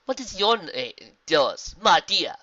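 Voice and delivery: lightly voiced zebra, slowing at the end; kindly zebra. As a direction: ask a child gently but audibly. Zebra asks filly's name.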